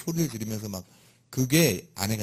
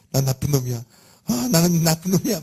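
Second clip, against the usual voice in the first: self-reproach; 7 semitones higher, 7 dB louder than usual. Retold or imitated. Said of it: "막 이러면서".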